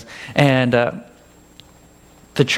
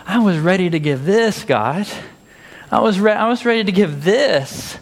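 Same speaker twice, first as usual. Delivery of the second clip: mock defensive; 6 semitones higher than usual. Defensive reply to God.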